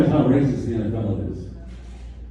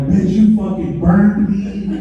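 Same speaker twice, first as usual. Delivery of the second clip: mock angry call; 7 semitones higher, 3 dB louder, slower than usual. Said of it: "I'm calling my favorite Mexican spot".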